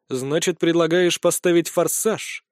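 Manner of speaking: slow pondering question; thoughtful. Acted. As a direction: think it over slowly. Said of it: "задумчиво произнёс я". (задумчиво)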